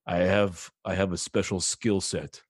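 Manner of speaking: low, quiet mock threat; menacing dad. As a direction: imitate a dad threatening in a dropped, hushed voice. Acts out his dad's threat.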